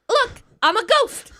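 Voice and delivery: high, slow mock ghost line; playful spooky ghost voice. Wife in a sheet spooking her husband, mock ghost voice. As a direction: tease him like a goofy ghost.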